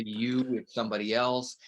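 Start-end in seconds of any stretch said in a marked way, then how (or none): 0.0-0.5 "you" said alone with weight on it; stress on you. Shown as a demonstration. Speaker demoing stress on "you" for teachers. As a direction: lean on "you". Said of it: "If I emphasize the "you".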